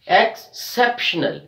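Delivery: "Exceptional" split after EX, CEP stressed. Shown as a demonstration. Teacher demonstrating third from last, stressed "exCEPtional". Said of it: "we are stressing on C E P".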